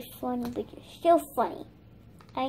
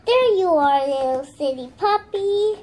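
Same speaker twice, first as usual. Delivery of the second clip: delighted discovery; 6 dB louder than usual. Pretend. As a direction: play at finding the lost puppy. Finding the lost puppy.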